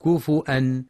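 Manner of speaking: "كفؤا" as kufu'an, with a glottal stop; hamza reading. Shown as a demonstration. Teacher showing a non-Hafs reading, "كفؤا" as kufu'an. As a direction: put a hamza after fu in "كفؤا". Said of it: "أو بالهمزة مع ضم الفاء".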